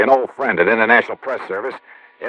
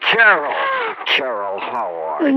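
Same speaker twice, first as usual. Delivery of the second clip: delighted greeting; 4 dB quieter, slower than usual. Acted.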